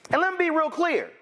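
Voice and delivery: high and forceful, every word punched; emphatic. Real, not acted. Warning Candace Owens away, emphatic. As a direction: drive it home, firm.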